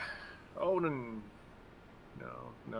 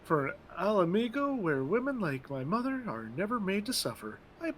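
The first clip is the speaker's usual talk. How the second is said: put-on lightly higher, earnest young half-breed; earnest recruit; 5 semitones higher than usual. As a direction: plead your cause with pride. Voicing Arvinvald recruit.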